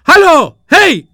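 high, very loud hail from afar; calling out loud. Acted. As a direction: yell to catch the brothers ahead. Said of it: "zawołał Głupi Jaś".

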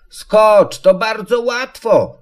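put-on high child's squeal; high-pitched little one urging a jump. A narrator's reading. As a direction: squeak it eagerly, like a small child. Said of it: "piszczało maleństwo".

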